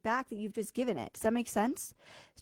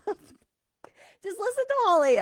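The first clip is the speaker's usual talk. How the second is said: voiced universe; 10 semitones higher, 7 dB louder, much slower than usual. Universe voiced pleading in skit.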